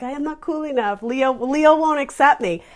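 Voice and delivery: put-on quoting the pianist in his accent, about Leo; imitated accent. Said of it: "He has an adorable little accent".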